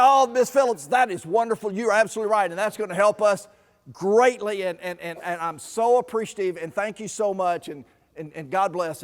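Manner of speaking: imitating a rattled man thanking her too much; gushing thanks. Doctor gushing thanks, flustered.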